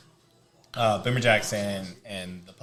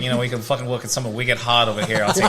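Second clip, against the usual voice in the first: put-on Boston accent; 2 semitones higher, 5 dB louder than usual. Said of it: "Boston accent".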